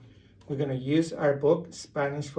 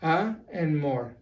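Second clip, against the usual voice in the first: amor split slowly into "a" and "more"; syllable by syllable; slower than usual. Shown as a demonstration. Spanish teacher breaks amor into two syllables, split slowly. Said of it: "So you stress the last one".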